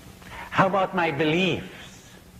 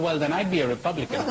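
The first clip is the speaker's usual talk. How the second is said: a fast punchline tipping into a laugh; rushed, laughing; 3 semitones higher, much faster than usual. Real, not acted. Teller rushing the Republican punchline to the audience, laughing. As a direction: race through the punchline, laughing.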